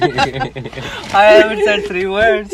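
put-on southern accent. Starts southern accent bit.

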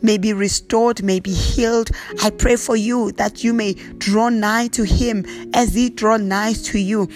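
prayer voice, lightly intoned, slipping into tongues; fervent prayer. Acted. Pastor praying over the congregation, earnest prayer voice. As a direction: pray over them, steady and earnest.

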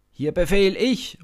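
loud, high bark of authority; commanding shout. Acted. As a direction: assert command loudly. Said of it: "ruft Abner".

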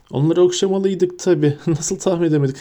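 snickering mockery. A narrator's reading. Malfoy mocks Hagrid's lesson, snickering. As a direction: laugh at the teacher through the words. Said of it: "dedi Malfoy kıs kıs gülerek".

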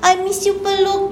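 lightly voiced affectionate child. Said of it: "pulang sekolah dia cari maminya".

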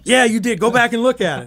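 high, amused caller voice. Retold or imitated. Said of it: "He goes".

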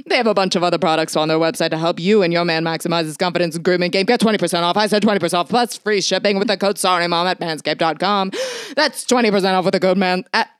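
lightly hammed old-time radio announcer reading ad copy; 1940s radio announcer. Host reads a grooming ad as an old radio announcer, hammed-up. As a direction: sell it like a vintage radio pitchman, mildly. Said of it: "I'll do it like a nineteen forties radio announcer".

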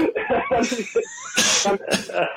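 shrill laugh fit; high cackle. Real, not acted. Trainer cracking up retelling the nipple grab, squealing laugh.

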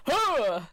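mock fighting noise; imitated effort grunt. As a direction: imitate someone exerting themselves with a huh. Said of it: "just going".

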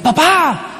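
put-on high-pitched kid calling out; acted child's high holler; yelling for dad. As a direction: call across the house, stretching the end. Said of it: "me grita en la casa".

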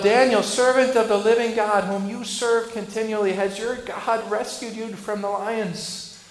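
loud anxious call into the den. Retold or imitated. King Darius calling to Daniel at dawn, loud anxious shout. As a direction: shout down the pit, slowing at the question. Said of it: "He called out".

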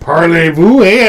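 badly faked French accent; hammed-up French accent. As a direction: have a go at a comic French accent. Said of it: "like, a French accent".

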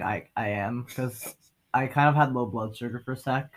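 talking through a mouthful; eating while talking. Real, not acted. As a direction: speak around a bite of food. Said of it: "if I sound like I'm eating something".

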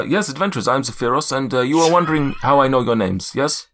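a light slide into South African; accent wandering toward South Africa; South African drift. Acted. GM voicing Zephyros to the adventurers, slipping South African. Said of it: "I've drifted straight into South Africans again".

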